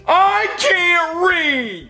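tag. Acted. Indignant reply about reading.

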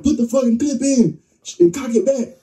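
high, strained rapid-fire instruction; retold urgent order. Telling his girl to reload during the fight, high strained order. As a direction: rush the reload order out under pressure.

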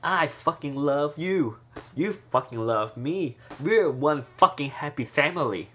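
slow, deliberate, every fucking landed; mean it with weight; emphatic swearing. Shown as a demonstration. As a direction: intense heartfelt declaration. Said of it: "it may sound so".

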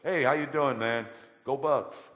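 loud, high football cheer to passing cars; cheery greeting. Retold or imitated. Greeting Ohio State fans in traffic, loud high cheer. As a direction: hail the drivers like a game day fan. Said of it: "I started saying".

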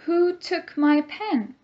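high, slow questioning voice; demo question. Shown as a demonstration. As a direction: ask it like a puzzled kid. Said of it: "Let's look at the example".

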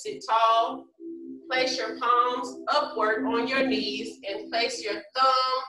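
normal talking voice

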